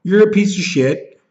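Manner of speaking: high-pitched furious outburst. Real, not acted. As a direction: spit it out at the thief, pitch shooting up. Furious rant at thieves.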